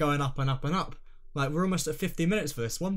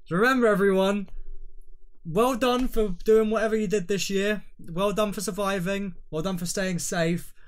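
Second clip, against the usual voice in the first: exaggerated sign-off; 4 semitones higher, 3 dB louder than usual. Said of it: "Take two".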